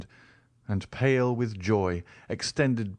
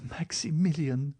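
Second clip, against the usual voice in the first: put-on higher, pleading young woman; Valentine's voice; 7 semitones higher than usual. A narrator's reading. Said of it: "said she".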